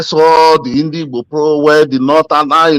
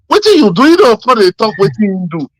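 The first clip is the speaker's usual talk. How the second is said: emphatic challenge; 4 semitones higher than usual. Real, not acted. Arguing with friend.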